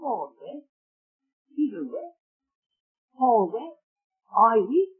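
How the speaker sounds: high-pitched, pleading pulpit voice; impassioned preaching. Real, not acted. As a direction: plead with the congregation to grasp it. Preaches with raised voice.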